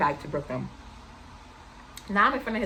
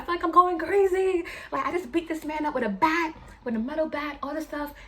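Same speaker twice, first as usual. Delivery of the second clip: frantic retold panic; 8 semitones higher than usual. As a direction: imitate him losing it, then trailing off. Boyfriend panicking after beating a man.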